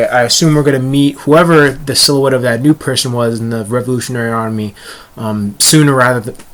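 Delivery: talking through hiccups. Real, not acted. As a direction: speak while hiccuping. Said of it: "Sorry, guys, the hiccups".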